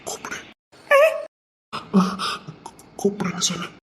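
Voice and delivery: whispered, teasing request; soft playful whisper; soft coaxing whisper. Real, not acted. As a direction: coax her in a hush. Coaxing her softly to say it.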